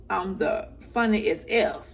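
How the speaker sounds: "funny as F" leaned on, each word weighted; emphasis on funny as F. Shown as a demonstration. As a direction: punch out "funny as F". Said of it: "I put the emphasis on".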